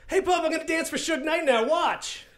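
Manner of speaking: high-pitched eager show-off; imitating thrilled dancers; excited dancers. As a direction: call out in a high, giddy voice.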